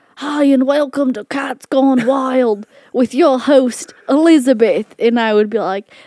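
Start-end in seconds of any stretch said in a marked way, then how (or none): 0.2-4.9 put-on high-pitched Australian nature-show host accent. Retelling how she opened her cat videos as host, in an Australian accent. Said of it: "i had an australian accent when i would do the videos".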